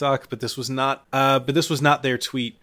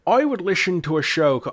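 higher-pitched, shaky stab at Scottish; attempted Scottish accent; 6 semitones higher than usual. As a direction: try a Scottish accent and abandon it.

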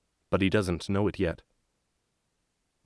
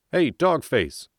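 loud, higher gruff call; shouting; 7 semitones higher, 4 dB louder, slower than usual. Acted. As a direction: yell across the camp. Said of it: "he shouts".

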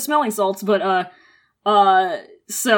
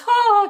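mock swoon gasp; 10 semitones higher, 3 dB louder than usual. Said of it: "He swoons and goes".

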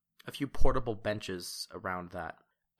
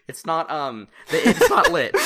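laughing through the words; words cracking up into high laughter; 7 semitones higher, 14 dB louder than usual. Real, not acted. GM telling players the fire is out, laughing.

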